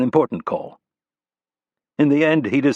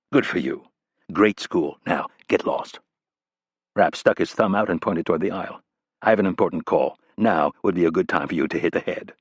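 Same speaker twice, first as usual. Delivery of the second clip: lower, dry and dismissive; a lightly voiced tough guy brushing someone off; dry tough agent; 3 semitones lower than usual. Rapp brushes off the staffer.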